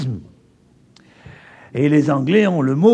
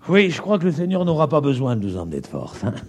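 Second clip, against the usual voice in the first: laughing aside; 4 semitones lower, 3 dB quieter, much faster than usual. Real, not acted.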